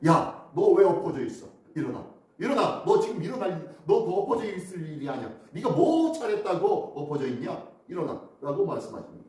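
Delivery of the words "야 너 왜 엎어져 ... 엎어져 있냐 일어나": God's stern rebuke. Retold or imitated. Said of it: "하나님이 그러십니다".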